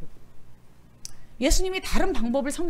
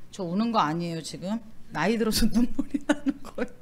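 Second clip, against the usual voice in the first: teary laugh; 3 semitones lower than usual. Retold or imitated. Quoting a tearful congregant.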